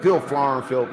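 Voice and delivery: giggling through the nonsense words; cracking up while repeating the mock Cosby line; half-laughed Cosby gibberish; laughing. Real, not acted.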